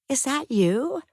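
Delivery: high, breathless disbelief; stunned. Acted. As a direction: ask it as if seeing a ghost. Woman recognises her lost love.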